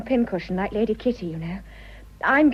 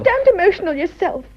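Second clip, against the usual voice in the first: loud retort; 8 semitones higher, 8 dB louder than usual. Acted. Lovers' teasing retort.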